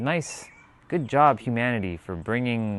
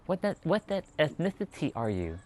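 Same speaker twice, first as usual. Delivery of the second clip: light lisping voice, a bit higher; 8 semitones higher, 4 dB quieter than usual. Shown as a demonstration. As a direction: ask it with a slight lisp. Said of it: "With a little bit of lisp".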